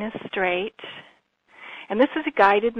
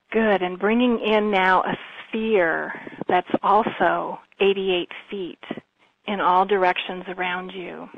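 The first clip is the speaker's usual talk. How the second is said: calm, even meditation voice with long pauses; guided meditation. Real, not acted. Healer leading listeners through breathing and visualization, calm guided meditation. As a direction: guide them gently, leaving space between phrases.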